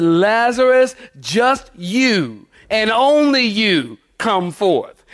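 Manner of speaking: slow, deliberate call singling out one person; commanding summons. Retold or imitated. Preacher voices Jesus summoning only Lazarus, slow and commanding. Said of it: "It's almost like he said".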